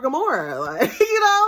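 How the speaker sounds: high, loud laugh cracking into tears; laugh-crying. Real, not acted. Realizing she's like Gamora, laughing through tears. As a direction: caught between laughing and crying.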